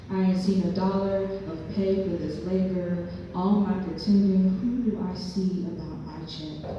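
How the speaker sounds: lightly performed spoken-word poem; measured poetry reading with punched phrases; poem recital. Acted. Poet performing a monologue about her father, lightly dramatic recital. Reads own poem to audience.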